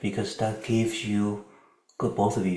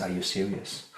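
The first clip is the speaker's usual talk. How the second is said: softer, calm question; 7 dB quieter than usual. Shown as a demonstration. Coach showing a calm way to ask, calm. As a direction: ask it calmly, without heat. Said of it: "Calmly ask".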